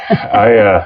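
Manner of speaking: crying. Real, not acted. Moved by wife's praise.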